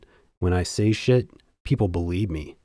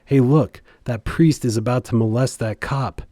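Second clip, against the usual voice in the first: a raised, higher call of alarm; mock shout; 3 semitones higher than usual. Rioter calls out to the crowd, pointing, in a shout. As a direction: yell it like a heckler spotting a target. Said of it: "pointed towards me and shouted".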